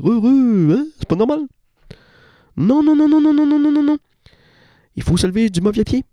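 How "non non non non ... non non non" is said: high, loud repeated no's; emphatic refusal. Acted. Comic protest against waking up happy, loud and high. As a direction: refuse loudly, over and over.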